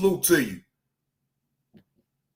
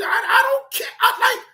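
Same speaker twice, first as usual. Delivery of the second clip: retold outburst; 4 semitones higher than usual. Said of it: "I'm like".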